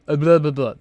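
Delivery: numb lip talk. Shown as a demonstration. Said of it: "Imagine if someone's bottom lip was numb".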